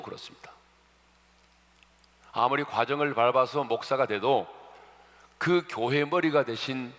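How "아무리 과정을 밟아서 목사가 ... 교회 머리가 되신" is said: louder and higher, slowing on the key phrase; preaching at full force. Acted. Pastor warning the congregation, impassioned preaching. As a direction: drive the warning home from the pulpit.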